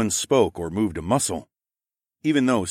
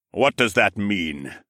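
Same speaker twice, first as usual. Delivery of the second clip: dark scowl; slower than usual. Acted. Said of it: "asked with a dark scowl".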